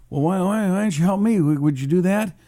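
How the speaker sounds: a hammed-up hint of Trump; bad Trump impression. Host plays Trump asking Putin a favor, bad Trump impression. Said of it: "I don't do a very good Trump".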